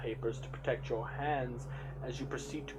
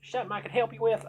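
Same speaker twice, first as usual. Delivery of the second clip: put-on fast, much higher, louder, a rushed stab at a South Asian accent; quick South Asian accent attempt; 11 semitones higher, 9 dB louder, faster than usual. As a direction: tries a South Asian accent, then gives up. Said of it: "speaking with a strong South Asian accent".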